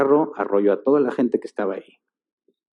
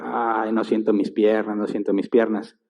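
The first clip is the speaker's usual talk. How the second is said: mock groaning; 3 semitones lower, 4 dB quieter than usual. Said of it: "se empezó a quejar".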